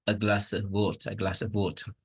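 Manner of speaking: "a" and "of" reduced to schwas; weak function words. Shown as a demonstration. Teacher demonstrating weak forms, short "a" and "of". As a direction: stress glass and water, weaken "a" and "of". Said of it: "but the function words".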